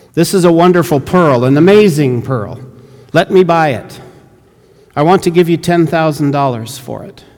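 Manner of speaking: lightly voiced missionary begging to buy; eager missionary. Missionary pleads to buy pearl.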